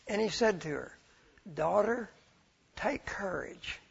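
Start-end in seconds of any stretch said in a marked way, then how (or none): 1.5-3.8 slow, softening words of comfort; tender reassurance. Retold or imitated. Jesus to the woman who touched him, tender reassurance. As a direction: reassure gently, easing into a slower, softer close.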